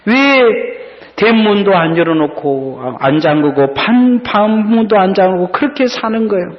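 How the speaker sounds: acted-out daughter's reproach. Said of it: "큰 소리로 이야기합니다".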